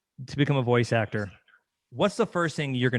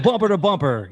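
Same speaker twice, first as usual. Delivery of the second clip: loud, higher radio traffic announcer; imitated DJ voice; 5 semitones higher, 6 dB louder than usual. Host playfully copying the guest's announcer voice, traffic report style. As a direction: punch it like a station DJ. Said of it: "That sounded totally like it".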